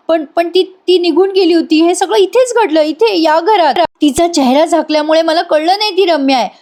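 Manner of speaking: a hint of a tearful young woman; Arya shaken. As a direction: stammer through it, still frightened. Arya recounts the night, voiced.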